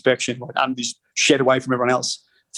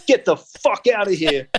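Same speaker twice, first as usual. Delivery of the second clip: lightly voiced gangster officer, a bit higher; a hint of the tough officer brushing him off; customs officer; 6 semitones higher than usual. Officer tosses back the passport, lightly mocked gangster voice. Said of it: "throws my passport in the window and goes".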